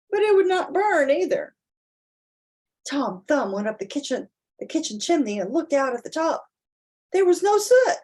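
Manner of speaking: lively storybook narration with big rises; reading to children. A narrator's reading. Parent reading a picture book aloud to children, animated storytelling. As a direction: read it out to your child with wide-eyed emphasis.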